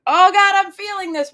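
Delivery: high, loud mock-dramatic wail; mock panic. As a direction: ham up being overwhelmed by feelings. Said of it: "we don't have to be like".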